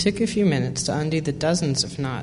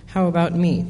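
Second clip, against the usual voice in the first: higher, louder grumbled complaint; grumbling; 4 semitones higher, 6 dB louder than usual. A narrator's reading. Old turtle demanding the elephant's help, grumbling loudly. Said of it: "grumbled this old turtle".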